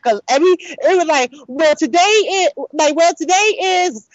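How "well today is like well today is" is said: mocking the teacher. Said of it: "her English is bad".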